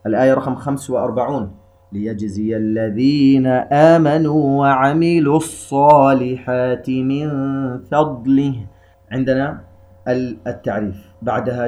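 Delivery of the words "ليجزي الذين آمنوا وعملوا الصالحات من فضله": slow melodic tajweed recitation; Quran recitation. Shown as a demonstration. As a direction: chant the verse slowly with tajweed.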